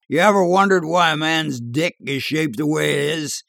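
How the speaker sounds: character voice, lifted and curious; bar-room yarn spinner. A narrator's reading. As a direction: put a question to your drinking buddies. Voices Edgar, barroom storyteller.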